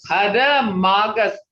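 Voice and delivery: drawn out, careful "Hada Magus"; model pronunciation. Shown as a demonstration. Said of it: "say it again".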